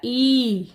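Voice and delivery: ई held as a long, drawn-out ee; long vowel ई. Shown as a demonstration. Teacher shows children the big ई, long drawn-out vowel. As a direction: sound out a long ई clearly. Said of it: "बड़ी का उच्चारण कैसा होता है".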